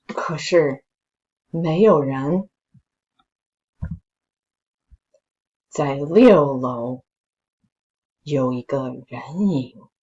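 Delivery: slow, suspenseful storytelling voice; story narration. A narrator's reading. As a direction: build the creepy tension slowly. Reads a spooky story aloud.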